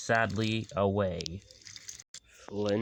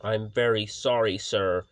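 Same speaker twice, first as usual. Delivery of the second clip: nervous; 6 dB louder than usual. Acted.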